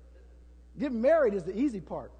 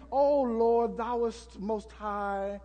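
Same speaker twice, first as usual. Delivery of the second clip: fancy ornate prayer; 3 semitones lower, 3 dB quieter than usual. Retold or imitated. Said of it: "all of those fancy".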